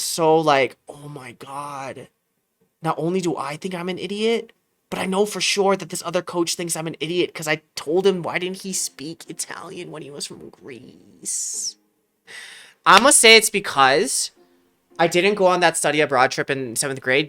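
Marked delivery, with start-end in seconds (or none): 0.9-11.8 mortified. Retold or imitated. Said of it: "mortified that I said that".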